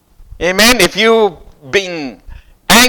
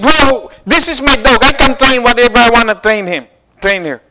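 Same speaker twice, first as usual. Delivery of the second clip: mildly heated comeback to a stranger, pitched up; voice going up, getting mad; 4 semitones higher than usual. Retold or imitated. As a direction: push back higher and quicker, irritated. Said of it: "my voice kinda go up a little bit".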